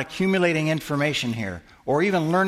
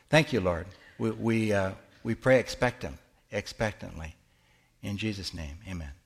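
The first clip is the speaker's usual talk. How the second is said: sincere public prayer. Real, not acted. Leads the group in prayer.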